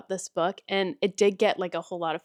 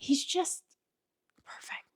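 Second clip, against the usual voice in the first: a high, fading breath; dreamy trailing sigh; 7 semitones higher, 8 dB quieter than usual. Real, not acted. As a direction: let it fade out in a swoon. Dreamy sigh over hero.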